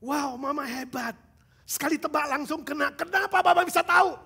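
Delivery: put-on amazed child praising mom; surprised child. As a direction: gasp it out like an amazed kid. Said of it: "anaknya kaget".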